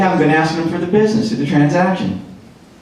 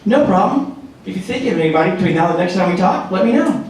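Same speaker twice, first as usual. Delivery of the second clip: second script demo. Shown as a demonstration. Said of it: "this is your second script".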